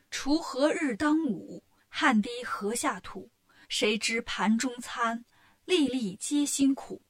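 slow, measured recital of a classical poem; Monkey reciting a poem to teach Bajie. Acted. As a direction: recite each line slowly like a schoolchild.

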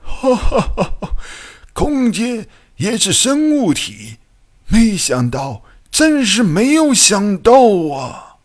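high-pitched, laughing mad-scientist delight; excited exclaiming. A narrator's reading. Biologist amazed that space is alive, excited exclaiming. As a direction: burst out laughing, then marvel at a high pitch. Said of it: "怪博士惊叫起来".

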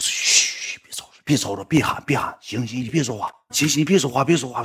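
soft urgent shushing, hushed; hushing. Retold or imitated. 让粉丝小声别喊. (小声急着让他别喊)

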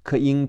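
"克英" run together into king; k linked to the following vowel in "克英"; linked sounds. Shown as a demonstration. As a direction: join "克" straight onto "英". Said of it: "要连在".

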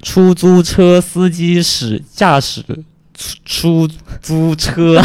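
出租车司机 read slowly, tripping on 出; halting, slow 出租车 with a restart; stumbling tongue twister. Shown as a demonstration. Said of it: "这个绕口令".

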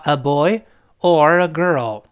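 put-on "boy" lifted, "girl" drawn down; rise then fall. Shown as a demonstration. Teacher breaking down the question, falling tune on "girl". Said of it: "女孩儿降的".

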